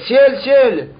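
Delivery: mild mock cry to the sky; retold cry. Teacher translates the sage's appeal to the sky, understated cry. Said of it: "Il a crié".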